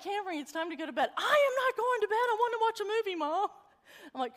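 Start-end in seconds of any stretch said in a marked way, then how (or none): 0.0-1.1 fast, laughing through a firm bedtime order; half-laugh the bedtime call; amused mom telling her kid to bed. Retold or imitated. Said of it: "And I'm like". 1.2-3.5 put-on high, loud, fast teen protest; mock-irate sleepwalking teen refusing bed; irate daughter. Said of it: "irately mad".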